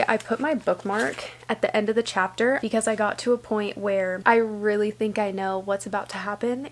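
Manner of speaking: soft, hushed late-night talk; quiet bedtime chat. Real, not acted. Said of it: "late-night quiet talk".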